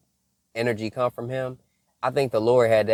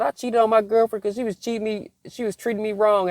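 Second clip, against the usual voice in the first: imitating young cousin; 10 semitones higher than usual. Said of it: "He said".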